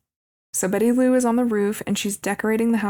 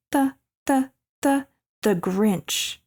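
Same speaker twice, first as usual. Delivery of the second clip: slow, drawn-out mock-menacing Grinch; evil scary Grinch; 4 semitones higher, slower than usual. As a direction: stretch it out like a villain creeping up. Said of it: "gets all evil and scary".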